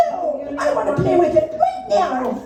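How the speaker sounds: mock defiant girl; defiant child. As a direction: insist like a stubborn kid. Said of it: "she got defiant and said".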